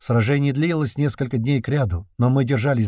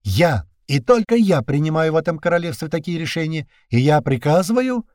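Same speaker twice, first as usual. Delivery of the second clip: icy tone; 6 semitones higher than usual. A narrator's reading. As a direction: lay down the law coldly. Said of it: "ледяным тоном".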